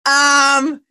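high, squeaky overjoyed yes; thrilled inner voice. Retold or imitated. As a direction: gush like you can't believe your luck. Retelling inner thrilled response.

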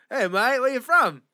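hammed-up friendly bro with a hint of Australian; mock bro greeting. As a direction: greet like an eager stranger. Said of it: "other dudes are like".

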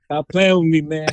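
put-on DC accent, DC slang. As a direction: talk like a guy from DC. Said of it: "I'm trying to get my D C accent".

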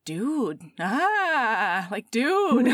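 dude broken up by laughter; laughing dude. Retold or imitated. Brian laughs in disbelief at his wife. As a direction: laugh through the dudes. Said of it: "he's like".

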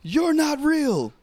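high, loud, drawn-out mock scream; stretched high-pitched imitation of an angry, confused shout; retold yell. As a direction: yell it long in disbelief. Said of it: "and he yells".

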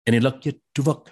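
lightly imitated TV character, quick delivery; Chakotay voice. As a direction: try out a light Chakotay impression. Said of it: "in the Chakotay voice".

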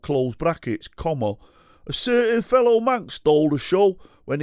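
high, loud mocking Manc accent; knobhead scrote Manc. Reading out a fan's comment in a high, loud, mocking Manc accent. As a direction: read it as a cheeky Manc lad. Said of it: "I'm gonna do you as a sort of knobhead scrote Mank".

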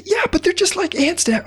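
very high squeaky ant voices calling back; cheerful high ant shout; tiny ants shouting back. Acted.

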